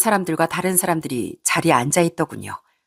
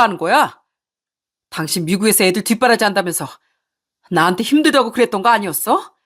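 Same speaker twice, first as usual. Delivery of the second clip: shouting husband; 2 semitones higher than usual. Acted. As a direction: hurl each question at the cheating wife. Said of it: "크게 소리를 쳤습니다".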